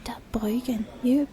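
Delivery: halting attempts at Australian; word-by-word, faltering Aussie accent. Shown as a demonstration. Hunting for the accent word by word, tentative Australian. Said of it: "how do I do an Australian accent".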